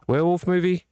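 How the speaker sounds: "Werewolf movie" said high and loud; rising high. Shown as a demonstration. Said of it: "Werewolf movie and a cop movie".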